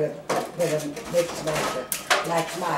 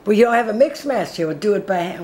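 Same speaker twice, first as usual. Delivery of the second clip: exasperated; 4 semitones higher, 9 dB louder, faster than usual. Real, not acted. Exasperated about the missing mixer.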